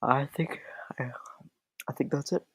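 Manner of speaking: talking through a yawn. Real, not acted. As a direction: say it mid-yawn, sleepy. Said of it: "Ah, you're yawning".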